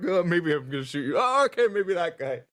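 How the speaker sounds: sing-song teasing, jumping high on okay; mocking. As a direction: tease while picking a target. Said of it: "I'm imitating what they would do as I'm like".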